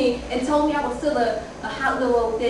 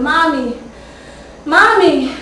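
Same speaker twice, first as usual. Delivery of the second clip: put-on child screaming; 4 semitones higher, 8 dB louder, slower than usual. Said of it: "Kwame was screaming".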